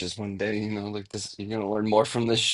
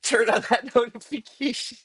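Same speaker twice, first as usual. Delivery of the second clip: streamer hype plug; 9 semitones higher, 9 dB louder than usual. Pretend. Mock streamer plug, laughing.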